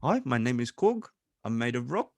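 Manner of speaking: lightly voiced film character with a New Zealand accent; a hint of an easygoing Kiwi rock creature; Korg. Quoting Korg to friends, light New Zealand accent. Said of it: "it sounded like Korg from Ragnarok".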